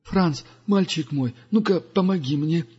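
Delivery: lightly voiced wise old pilgrim; Duga's voice. (голос мудрого странника)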